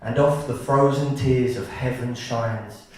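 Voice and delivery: measured sonnet recital; poem reading. Acted. Poet reading a dark winter sonnet to an audience, measured recital. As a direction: recite it line by line with deliberate pauses.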